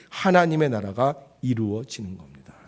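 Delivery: ordinary delivery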